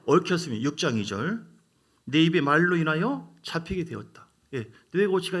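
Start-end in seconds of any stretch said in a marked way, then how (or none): 0.0-0.6 louder call-and-response line; call to repeat. Shown as a demonstration. 교인들에게 따라 하라며, 크게 선창. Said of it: "자, 따라서 할게요". 2.0-4.3 louder call-and-response line; call to repeat. Shown as a demonstration. 교인들에게 따라 하라며, 크게 선창. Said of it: "자, 따라서 할게요".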